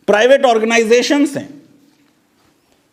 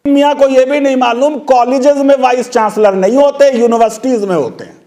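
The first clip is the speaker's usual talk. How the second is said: scornful jab; 4 semitones higher, 4 dB louder than usual. Real, not acted. Mocks petitioner's ignorance.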